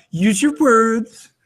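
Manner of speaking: slow, patient parent voice; parent to child. Retold or imitated. Parent telling son to use his words, slow and patient. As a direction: coax a toddler, slowly. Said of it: "like with my son".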